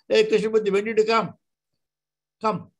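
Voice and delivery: high call down the stairs. Retold or imitated. Swami calling down from first floor.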